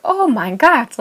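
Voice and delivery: retold horrified gasp of words; freaked out. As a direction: imitate an alarmed pharmacist. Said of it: "she freaked out".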